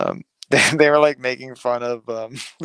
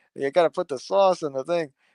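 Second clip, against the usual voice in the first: put-on Italian accent, actor-style voice; 4 semitones higher than usual. Describing to a friend how a character sounds, in a put-on Italian accent. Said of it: "it's like an Italian actor".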